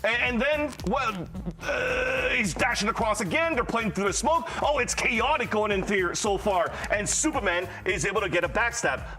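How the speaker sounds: zoomer slang play-by-play, lightly voiced; casting a match as a Gen Z kid; ironic zoomer. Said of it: "talking like a Zoomer".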